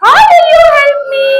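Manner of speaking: mocking lion. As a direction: tease the tiny mouse. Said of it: "The lion laughed".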